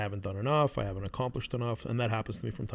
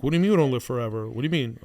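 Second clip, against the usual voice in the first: put-on upset child; 8 dB louder, faster than usual. Upset son questioning death.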